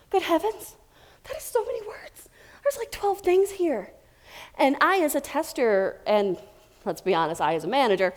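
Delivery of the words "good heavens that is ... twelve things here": high, soft, hammed-up dismay; mock overwhelmed. Speaker acting overwhelmed by a long changelog, mock dismay. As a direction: gasp out good heavens at the wordy changelog.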